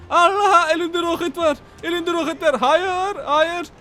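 high panicked cry; high, frantic no no no. Acted. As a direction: squeal in panic at the rocket. Panic at the rocket.

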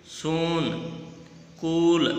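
"सून, कूल" with held oo; long oo. Shown as a demonstration. Teacher reads the quiz words, long oo in "सून, कूल". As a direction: stretch the vowels of "सून, कूल". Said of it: "कौन से का sound अलग आ रहा है".

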